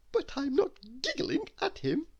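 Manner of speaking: very high, sweet little voice; high squeaky little-girl voice; giggly waitress. Acted. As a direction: protest innocently like a tiny happy girl.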